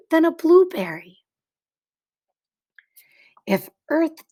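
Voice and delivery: put-on clear, expressive read-aloud to children; story narration. A narrator's reading. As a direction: read it like a picture book for kids. Reads picture book to class.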